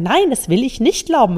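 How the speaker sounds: mean every word of the refusal; sincere and honest. Shown as a demonstration. Coach to her listeners, saying the refusal with sincere conviction. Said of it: "ganz echt und ehrlich sagen".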